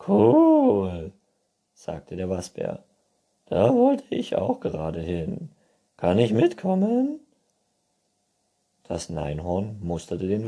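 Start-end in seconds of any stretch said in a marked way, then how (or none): 0.1-1.1 very high, loud squeak; shouting squeaky raccoon; hard-of-hearing raccoon. A narrator's reading. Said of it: "Du musst lauter reden". 3.5-7.2 very high, loud squeak; shouting squeaky raccoon; hard-of-hearing raccoon. A narrator's reading. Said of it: "Du musst lauter reden".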